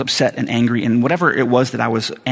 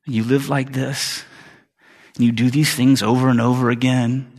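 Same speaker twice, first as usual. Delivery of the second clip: accusing devil. Acted. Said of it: "the devil lies to you again and says".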